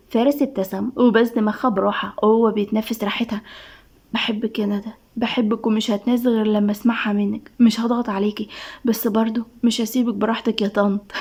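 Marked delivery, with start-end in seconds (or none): 4.1-11.1 tender confession. Acted. Tender love confession to Nada. (بحنان وهدوء)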